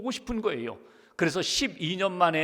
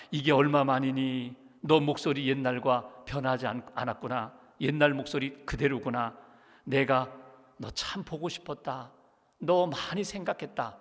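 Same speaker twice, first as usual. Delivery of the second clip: lightly voiced mother, a little lower; tender mother; 3 semitones lower than usual. Mother to long-lost daughter, gently tender.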